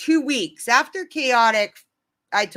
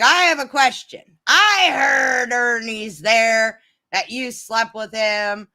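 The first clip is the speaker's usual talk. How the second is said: loud, slow accusing question; mock confrontation on the call; imitating Raylan; 4 dB louder, slower than usual. Raylan confronting the speaker on a group call, loud and slow. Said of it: "And Raylan's like".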